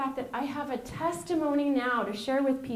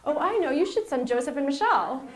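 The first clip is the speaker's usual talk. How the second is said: mock boss voice; 4 semitones higher, 5 dB louder than usual. Mocking bosses picking them again.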